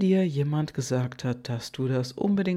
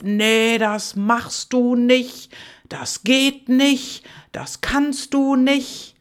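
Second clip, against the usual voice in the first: loud, higher, slow scolding voice; 7 semitones higher, 6 dB louder, slower than usual. Acted. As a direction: boom in like an outside critic. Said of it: "spricht ganz laut".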